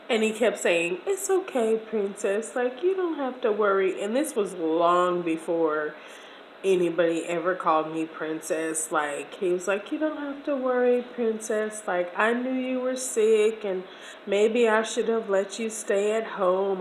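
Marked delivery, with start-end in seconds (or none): 1.1-4.0 caring reassurance. Retold or imitated. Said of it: "so super caring and so super loving". 9.9-16.8 caring reassurance. Retold or imitated. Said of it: "so super caring and so super loving".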